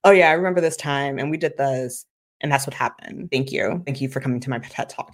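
mock-bored, fading off, rushed at the end; bored flat telling. Shown as a demonstration. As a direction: rattle it off like a dull speech. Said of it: "then it's just be like".

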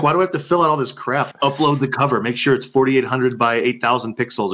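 retelling his irritation at the forms, mock exasperated; annoyed complaint. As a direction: whine about all the paperwork. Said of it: "I'm like".

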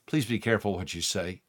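soft, gentle pleading; gentle plea. Pretend. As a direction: plead gently, holding their shoulders. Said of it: "shake you gently, not harshly".

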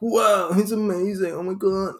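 high-pitched fake awe; put-on breathless hero worship; mock gushing fan. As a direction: gush like a starstruck fan, mockingly. Imitating adoring fans of Musk.

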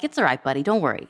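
retold motherly reassurance; comforting parent. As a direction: soothe an upset child. Mother comforting her tearful son, retold.

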